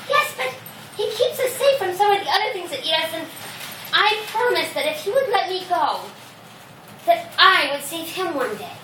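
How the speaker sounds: pleading mouse. Acted. Mouse character argues back.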